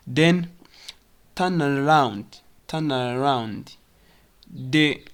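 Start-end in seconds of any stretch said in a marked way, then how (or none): 1.4-3.8 "turn around" linked as "tur-naround"; connected words. Shown as a demonstration. Teacher showing the arrow connects, linked "turn around". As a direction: join the N of "turn" onto "around". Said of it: "arrow connects".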